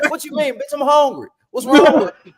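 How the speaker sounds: high-pitched, incredulous mock protest; mock indignation. Man acts out hungry worker arguing with his babe, mock indignation. Acted quarrel over being hungry.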